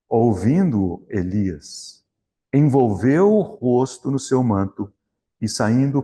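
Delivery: measured Bible reading to the congregation; scripture reading. Acted. Preacher reading the Elijah passage to the church, solemn reading. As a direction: read the passage deliberately, pausing on each phrase. Reads 1 Kings scripture aloud.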